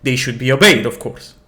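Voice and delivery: stern captain. Acted. Captain Kamar argues with the prince.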